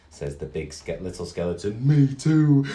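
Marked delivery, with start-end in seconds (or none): 1.9-2.6 loud agreement. Acted. Big skeleton agrees.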